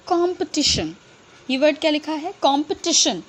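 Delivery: "कॉम्पिटिशन" ending clearly in shan. Shown as a demonstration. Teacher giving a tion rule example. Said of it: "last में शन क्यों बोल रहे हैं".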